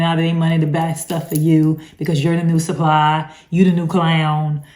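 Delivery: lightly mocking "you the new clown"; a touch of sarcastic scorn; mocking jab. Real, not acted. Warning viewers about being the new supply, lightly mocking. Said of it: "I have to say it that way".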